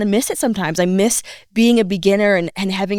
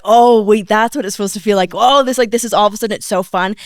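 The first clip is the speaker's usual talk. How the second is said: imitating excited realization; 3 semitones higher, 5 dB louder than usual. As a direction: voice a student's aha moment. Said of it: "when it clicks and they're like".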